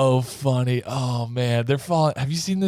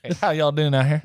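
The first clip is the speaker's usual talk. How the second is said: Southern accent; 4 semitones higher, faster than usual. Shown as a demonstration. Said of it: "doing an Alabama accent".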